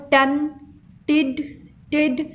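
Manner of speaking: टन, टिड, टिड each said alone as a separate syllable; isolated last syllables. Shown as a demonstration. Teacher picking out word endings for students, टन, टिड said separately. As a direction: break off टन and टिड, pausing after each. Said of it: "वो last syllable पर था".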